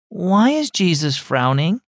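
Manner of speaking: put-on a wistful child asking; young girl. Girl asks aunt.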